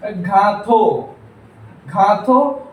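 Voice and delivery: "ഘാത്തോ" with a hard g and dental t; slow, separated syllables on "ഘാത്തോ"; hard Spanish G. Shown as a demonstration. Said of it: "രണ്ട് pronunciation വരുന്നുണ്ട്". ("ഘാത്തോ" കടുപ്പമുള്ള ഗ ശബ്ദത്തിൽ)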